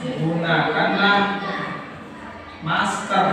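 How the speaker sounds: "Gunakanlah masker" slow, a measured instruction; command intonation. Shown as a demonstration. Teacher demonstrating for students, "Gunakanlah masker" as a measured command. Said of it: "Ini adalah intonasi perintah".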